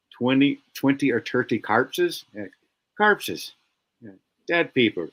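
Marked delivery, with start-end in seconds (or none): 0.1-2.2 hammed-up Scottish accent, slow, with a questioning rise on carpses; slow lightly Scottish "Twenty, twenty or thirty carpses?" rising at the end; mock Scottish. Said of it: "that's because he's Scottish". 3.0-3.5 "Carpses" said high, with a Scots "ar" in place of "or"; Scottish carpses. Retold or imitated. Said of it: "he's Scottish".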